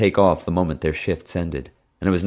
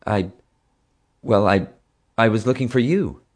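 stuttering; 5 semitones higher than usual. Acted. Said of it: "I stuttered for a moment".

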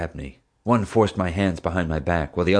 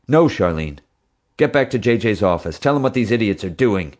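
urgent command; 3 semitones higher, 4 dB louder than usual. Acted. Dad ordering wife away.

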